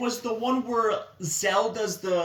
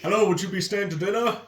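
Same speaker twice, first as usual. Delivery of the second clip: quirky character voice; 3 semitones lower, faster than usual. Retold or imitated. Quoting a character.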